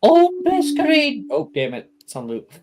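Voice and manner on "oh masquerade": high, loud intercom announcement; over the intercom. Acted. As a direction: blare it like a PA. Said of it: "you can hear the intercom go off".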